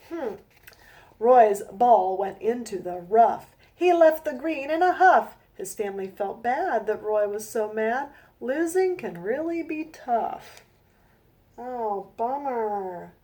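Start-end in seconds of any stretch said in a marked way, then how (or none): 1.2-10.6 slow, rhythmic rhyming read-aloud; storybook reading. A narrator's reading. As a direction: read each rhyme out slowly to a child. Reads her rhyming picture book.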